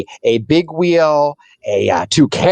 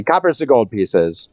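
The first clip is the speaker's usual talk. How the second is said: whispered aside; slower than usual. Real, not acted. GM checks rules under breath.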